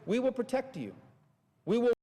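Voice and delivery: hammed-up soothing promise; a hint of a smug protector; mock reassurance. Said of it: "going to you and saying".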